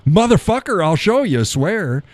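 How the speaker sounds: high-pitched, punchy mock outrage; mock indignant retort. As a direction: fire back in feigned indignation. Retort in retold swearing dispute.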